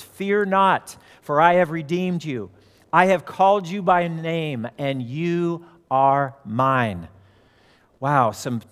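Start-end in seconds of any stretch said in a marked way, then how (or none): 0.0-7.1 measured father's words, slowing right down at the end; father teaching comfort. Retold or imitated. Father teaches his daughter words of comfort, measured and slowing. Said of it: "her father taught Mary to say".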